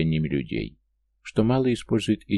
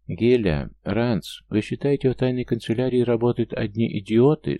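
smirking; 6 semitones higher, 4 dB louder than usual. A narrator's reading. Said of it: "с усмешкой проговорил Асгерн".

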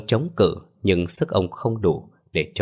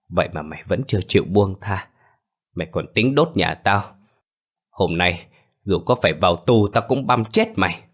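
hissing with hatred. Acted. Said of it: "giọng nói rít lên trong sự uất hận".

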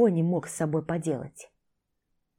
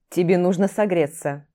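firm; 4 dB louder than usual. Acted. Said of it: "заявил твёрдо мужчина".

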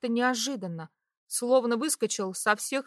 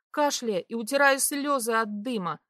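plain reading voice

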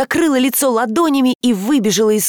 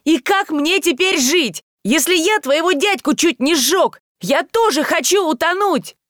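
отчаяние; 7 semitones higher than usual. A narrator's reading. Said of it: "кричал и кричал Таль".

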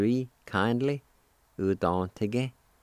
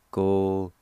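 syllable by syllable; 5 dB louder than usual. Shown as a demonstration. Teacher shows the first part of kindred, syllable by syllable. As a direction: hold each syllable of "Go-hu-stin" apart. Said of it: "First part is pronounced like this".

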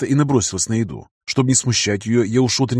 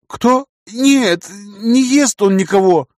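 frightened; 9 semitones higher, 4 dB louder, much slower than usual. Acted. Scared captive answers.

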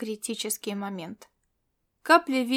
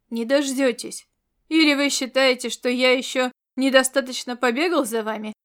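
sarcastic; 4 dB louder than usual. Acted. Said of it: "съязвил Ковдори".

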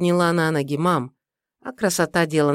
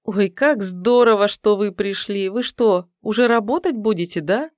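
high, eager rapid chatter; bubbling over with glee; joyful chatter; 5 semitones higher, 3 dB louder than usual. Acted. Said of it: "затараторила радостно".

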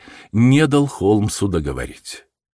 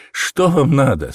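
trembling voice; 7 semitones higher, 4 dB louder than usual. A narrator's reading. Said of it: "спросил он дрожащим голосом".

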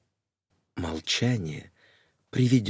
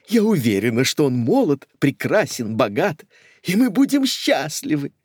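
high, louder giddy dreaming; gushing; 7 semitones higher, 4 dB louder than usual. Acted. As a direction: gush about the perfect groom.

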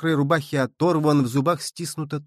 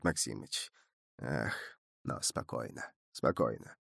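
much softer, near-whispered calming; calm soft aside; 13 dB quieter than usual. A narrator's reading. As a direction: hush the boy with a wry smile. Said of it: "он усмехается". (тихо, с усмешкой)

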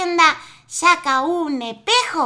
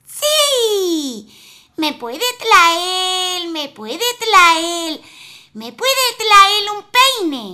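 wife's voice; 5 semitones higher, 4 dB louder, slower than usual. Acted. Wife asks for a gift.

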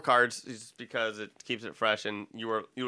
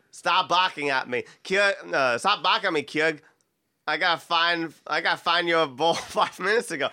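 broad mock Boston, R's dropped; amateur Boston accent, stumbling and amused; 2 semitones higher than usual. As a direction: have another go at a hammy Bostonian.

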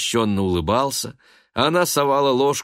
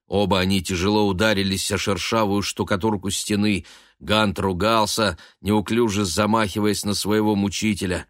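usual speaking voice

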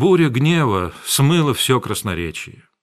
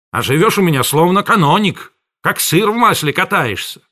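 high, loud scornful rant; contemptuous tirade; 5 semitones higher, 4 dB louder than usual. A narrator's reading. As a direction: sneer down at the boy. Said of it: "Он продолжал".

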